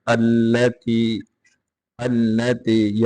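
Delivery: अल्लती opened with a fatha hamza; starting with hamza. Shown as a demonstration. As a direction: begin अल्लती with a clear a. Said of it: "हमजा मफ्तुहा लेके आएंगे".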